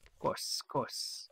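whispered aside; mutter. Real, not acted. Player agreeing under his breath, whispered.

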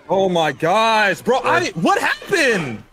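slow, rising confused cry; can't believe what happened; stunned disbelief. Real, not acted. Confused after sudden loss.

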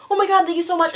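high, put-on flustered gratitude; imitated awkward thanks. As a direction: mimic an embarrassed girl thanking you, pitched high. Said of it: "really actually awkward about it".

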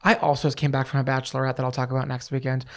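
hoarse, scratchy voice after a party; a raspy, worn-out voice. Real, not acted. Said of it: "I sound like a raspy jazz singer".

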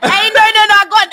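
high, loud laughing denial; laughing protest. Real, not acted. Joking to her friends about OnlyFans, laughing loudly.

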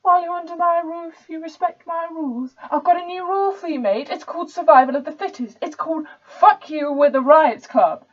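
put-on bully them in a posh, entitled accent; dodgy posh accent. Riot Club member smashing up the pub, in an aggressive posh accent. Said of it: "the accent's a bit dodgy".

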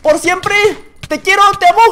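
proclama de amor exagerada, aguda; declaración grandilocuente. Pretend. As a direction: declama como un homenaje eterno, subiendo la intensidad. Declama su propio altar en broma. (declaración de amor exagerada y en voz alta)

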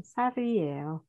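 "살이에요" joined as sa-ri-e-yo; linked sounds. Shown as a demonstration. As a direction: slide the ㄹ of "살이에요" onto 이. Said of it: "Nối âm lên". (đọc nối âm "살이에요" thành sa-ri-e-yo)

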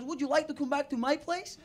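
put-on careful Norwegian-accented invitation; lightly mocked Norwegian English; attempted Norwegian accent. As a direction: imitate a Norwegian woman's accent. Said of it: "do a Norwegian accent".

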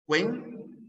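"cuen" isolated with a high rise; stressed syllable alone. Shown as a demonstration. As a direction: lift "cuen" as the strong syllable. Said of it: "hay una sílaba tónica".

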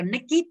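put-on naked said as two syllables, NAY-kid, ending -kid not a plain t; teacher models naked slowly and clearly, NAY-kid; pronunciation model. Shown as a demonstration. Cô giáo đọc mẫu naked thành hai âm tiết NAY-kid. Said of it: "một cái từ rất đặc biệt".

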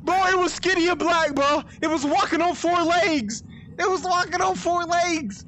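breathless panic. Real, not acted. Retelling monster right after chase.

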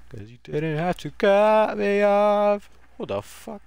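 drawn-out, high, loud mock outrage; mock offended. Streamer to a game opponent, hammed-up slow high indignation. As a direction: ham up being cut off, slow and high.

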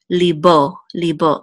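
libo said as lee-BO. Shown as a demonstration. Teacher reading libo to students. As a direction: sound out libo. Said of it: "the dot over it says o".

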